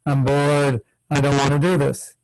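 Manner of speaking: listless, mock-bored voice; lightly acted tedium; bored complaint. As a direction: say it as if you can't be bothered. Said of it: "It sounds like I'm saying".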